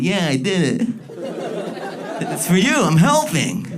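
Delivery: high, excited puppy; a proud, eager golden retriever; eager dog voice. Retold or imitated. Golden retriever proudly presents the sock to its owner. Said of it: "the golden retriever's like".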